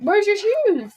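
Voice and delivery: high-pitched call across the room. Real, not acted. Parent to child heading out, calling out.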